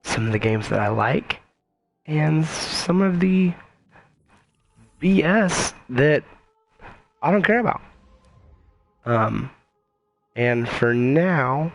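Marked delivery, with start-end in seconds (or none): 2.1-7.8 mocking disdain. Dismissing games he dislikes.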